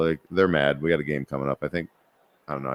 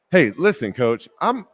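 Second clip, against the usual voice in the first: tough voice; 5 semitones higher, 4 dB louder, slower than usual. Retold or imitated. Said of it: "you put the bass in your voice?".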